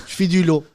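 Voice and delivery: "lot" said for vélo, first syllable gone; dropped syllable. Pretend. Host joking that he hates syllables, vélo clipped to "lot". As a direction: cut vélo down to a bare "lot". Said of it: "Si moi, il y a des syllabes".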